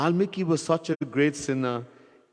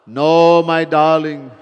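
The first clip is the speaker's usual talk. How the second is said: wife refusing; 8 dB louder, slower than usual. Acted.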